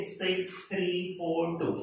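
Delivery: "सिक्स थ्री फ़ोर टू" as four individual digits. Shown as a demonstration. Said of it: "pronounce करेंगे individual digit".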